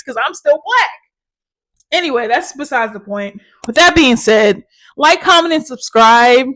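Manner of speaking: jittery, wired and quick; buzzing from coffee and pre-workout; too much caffeine. Real, not acted. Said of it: "so jittery".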